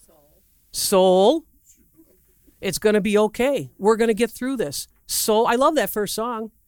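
gentle coaxing of your own soul; talking to your soul. Shown as a demonstration. Preacher demonstrating how to talk to your soul, gently. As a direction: soothe your soul like a child. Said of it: "how do you talk to your soul".

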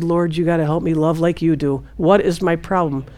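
low, soft, weary plea; quiet bedtime prayer. Retold or imitated. Alone at night asking God, low soft prayer. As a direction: pray it softly, low and tired. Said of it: "I said".

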